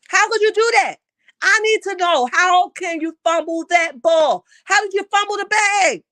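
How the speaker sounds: outraged. Real, not acted. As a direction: demand answers in disbelief. Outraged rant at viewer's fumble.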